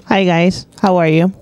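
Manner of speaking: talking with food in mouth; mouth full. Real, not acted. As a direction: speak around a bite of fries. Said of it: "Not with your mouth full".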